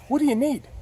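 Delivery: booming high, loud voice from above; Heavenly Father's voice. Retold or imitated. God asking the lost driver, loud and high. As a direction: speak as God, loud and pointed. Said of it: "this is like Heavenly Father talking to me".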